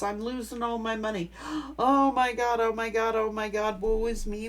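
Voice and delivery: gasping, whiny martyr lament; mock self-pity. Reader imitating the regretful ex, mock self-pitying lament. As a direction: ham up the self-pity with gasps. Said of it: "they sit and regret".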